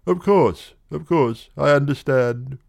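put-on young man soothing the girl; eager reassurance. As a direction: rush to reassure her.

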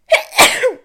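loud sudden sneeze; a real sneeze bursting out; sneezing. Real, not acted. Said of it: "vou espirrar outra vez".

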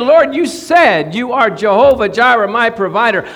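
earnest, pressing prayer claiming the promise; fervent declaration. Shown as a demonstration. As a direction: proclaim it like you mean it. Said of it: "can't just ... be so passive".

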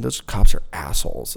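a hint of valley girl on "Those cops are assholes"; lightly valley-girl "Those cops are assholes", falling at the end; understated valley girl voice. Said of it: "I talk like a fucking valley".

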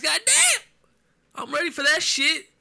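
high, loud hyped yell; excited shout. Real, not acted. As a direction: let it explode with excitement. Excited about division race.

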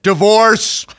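scene: the wife's friend overreacting to a wet bed, mock shout. Snap it out like a hysterical verdict.

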